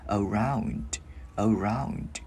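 "Around" with the final D popped out; released final D. Shown as a demonstration. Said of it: "Mình bật cái chữ D ra". ("Around", bật âm D ở cuối)

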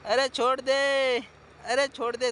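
loud, slow begging to let go; pleading shout. Real, not acted. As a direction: beg the goat loudly to let go, half laughing. Goat pushing him with horns.

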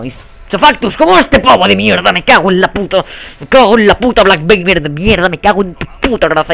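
loud cursing rant; real gamer rage; angry rant. Real, not acted. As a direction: curse out a rival player, rapid-fire. Ranting at another player.

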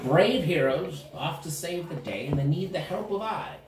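slow, grandiose hero's salute; declaiming gnome. Acted. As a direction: proclaim it like a herald.

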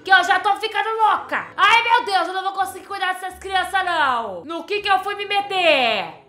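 loud, high, desperate pleading; a mother cracking under a crying baby; overwhelmed mom pleading. Acted. Begging baby Dulce to stop crying, loud and frantic.

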